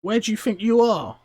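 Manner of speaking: high, loud goblin retort; scornful goblin. Acted. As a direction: answer a clueless stranger as a goblin. Goblin answers dwarf scornfully.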